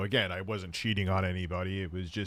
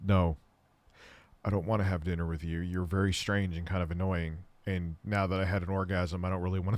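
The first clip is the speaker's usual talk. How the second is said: low, matter-of-fact put-down; deadpan rejection; 4 semitones lower, 4 dB quieter than usual. Retold or imitated. Man retelling his rejection of a hookup, deadpan. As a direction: reject them without any feeling. Retold cold rejection of the woman.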